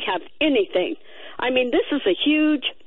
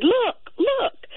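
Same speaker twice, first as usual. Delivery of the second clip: retold holler; 11 semitones higher than usual. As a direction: re-enact an urgent call to look. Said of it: "and I hollered".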